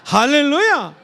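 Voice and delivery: usual speaking voice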